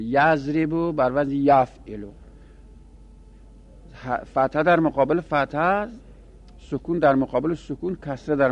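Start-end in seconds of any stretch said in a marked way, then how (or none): 0.0-2.1 یضربو stressed, the pattern said slowly; slow teaching repeat with یضربو stressed; slow, spelled out. Shown as a demonstration. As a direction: lay out یضربو بر وزن یفعلو slowly for the class. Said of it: "وزن تصریفی اینجوریه".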